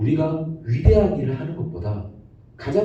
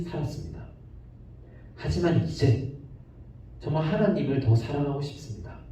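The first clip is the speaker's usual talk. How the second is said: softer, earnest prayer voice; model prayer; 4 dB quieter than usual. Shown as a demonstration. Preacher showing the children how to pray, softly. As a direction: pray it quietly, like a confession. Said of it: "이렇게 우리 함께 기도했으면".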